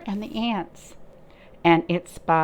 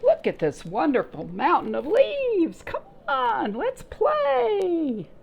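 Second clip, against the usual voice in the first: higher, louder, calling out to play; excited grasshopper; 11 semitones higher, 4 dB louder than usual. Acted. Grasshopper calling the ants to play, high and excited. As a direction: squeal the invitation up high.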